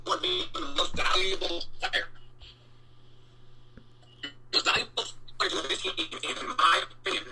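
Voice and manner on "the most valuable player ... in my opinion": choppy robotic connection dropout; breaking up over a bad call line; pitch wobble glitch. Real, not acted. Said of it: "like a robot right now".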